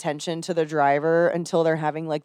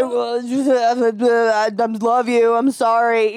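put-on slurred, slow drunk apology; imitating drunk husband; 4 semitones higher, 3 dB louder, much slower than usual. Drunk husband apologizing to crying wife, mock drunken mumble. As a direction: lightly play a blackout drunk. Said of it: "blackout drunk".

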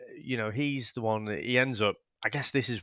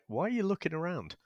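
laughing disbelief; 8 semitones higher, faster than usual. Retold or imitated. Mocking the actor's death scene.

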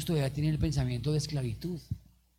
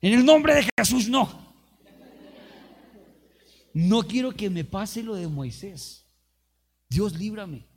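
loud, higher, slowing on the last line; fervent declaration; 5 semitones higher, 7 dB louder than usual. Real, not acted. Preacher loudly declaring before the congregation. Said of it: "preacher declares it himself".

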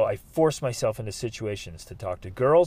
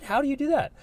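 high, amazed disbelief; can't believe what he's hearing; amazed question; 12 semitones higher, faster than usual. Retold or imitated. Young him asking his jovial friend, amazed. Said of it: "I'm like".

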